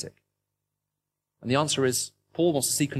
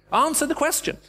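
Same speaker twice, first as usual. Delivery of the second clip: mock exasperated yell; 14 semitones higher than usual. Mock yelling at the radio.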